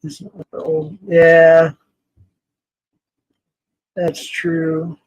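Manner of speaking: ordinary talk, nothing marked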